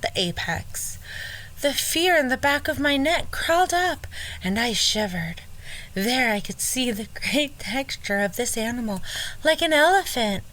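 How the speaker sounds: light Southern belle from Georgia; a hint of a Gone with the Wind lady. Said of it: "go with a Gone with the Wind voice".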